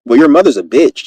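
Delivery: mild, peaceful delivery of an insult. Acted. Showing how to say something slick, peacefully. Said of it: "say it in a peaceful way".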